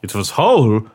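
put-on halting, dramatic German accent. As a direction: piece it together in a German accent. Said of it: "my German accent's been very good".

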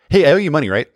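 cheerful hey, I owe you money; my best sound. Acted. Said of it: "That's a good sound".

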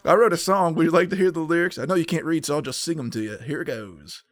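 loud, fast, hammed-up singer voice; mock country singer. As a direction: ham it up like a showy singer.

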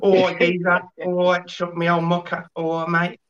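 Cockney. Shown as a demonstration. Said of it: "Cockney slang type of a thing".

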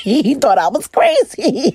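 high, laughing through the words; amused retelling with a laugh. Real, not acted. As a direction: giggle as you tell it.

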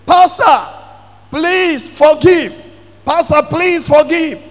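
retold pleading. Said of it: "He was on the ground pleading".

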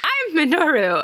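host laughing while voicing the disguised hero; laughing impression. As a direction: giggle out the silly disguise claim. Retelling the hero's reveal line.

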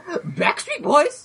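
slow, high, stretched horn cry; animal impressions. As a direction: wail it out long and high. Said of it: "let me blow into this horn".

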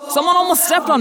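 high, loud startled yell to friends; yelled warning. Acted. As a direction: shout it out in alarm. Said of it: "I yelled to the others".

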